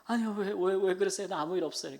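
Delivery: retold mild startled reassurance; taken aback. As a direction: act out a surprised friend's hurried denial. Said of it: "오히려 그 친구가 놀라가지고".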